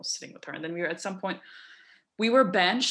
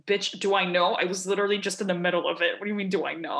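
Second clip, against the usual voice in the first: incredulous retort; 3 dB louder, faster than usual. Retold or imitated. Retorting to an ignorant remark.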